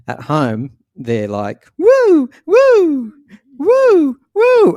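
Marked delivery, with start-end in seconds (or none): 1.8-4.8 very high, loud falsetto woos; squealing party woos; ecstatic whoops. Retold or imitated. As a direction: whoop like you're dancing alone at home. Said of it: "the British version of that".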